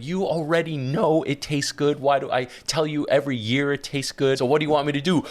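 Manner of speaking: lightly mimicked wifely exasperation; imitating exasperated wife. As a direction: complain as the fed-up wife. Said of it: "she'll look up to me and be like".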